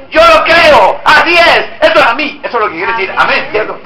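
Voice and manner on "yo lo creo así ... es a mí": heartfelt declaration. Shown as a demonstration. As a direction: let the belief burst out from inside. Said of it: "sino sale de".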